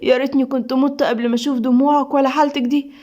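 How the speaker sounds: understated grieving appeal; sorrowful anguish. Acted. Husband sharing wife's grief over lost son, sorrowful. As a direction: console her through your own hurt. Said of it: "سيف بحزن وقهر عليها".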